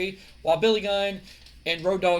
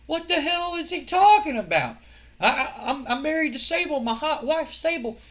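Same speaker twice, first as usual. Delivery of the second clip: much higher, louder, flustered disbelief; baffled outburst; 11 semitones higher, 4 dB louder than usual. Retold or imitated. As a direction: blurt it out in high-pitched confusion. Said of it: "He's like".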